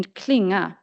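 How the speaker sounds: "klinga" said in Swedish, as an example word; careful Swedish "klinga", melody on the word; Swedish pronunciation. Shown as a demonstration. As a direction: demonstrate Swedish "klinga" with its pitch accent. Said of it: "demonstrate the pronunciation of these words".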